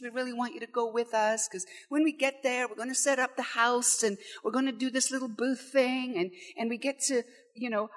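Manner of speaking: friendly invitation. Shown as a demonstration. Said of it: "It's not said like that at all".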